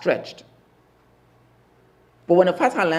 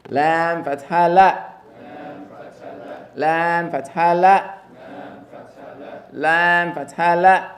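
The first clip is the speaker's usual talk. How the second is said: slow, drawn-out model recitation; teacher drilling slowly; slow spelling drill; slower than usual. Shown as a demonstration. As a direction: spell it slowly for the class to repeat. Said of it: "Try to not Americanize it".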